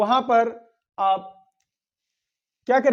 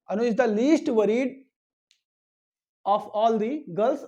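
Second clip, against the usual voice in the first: slow model sentence; much slower than usual. Shown as a demonstration. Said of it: "तो the हो जाएगा".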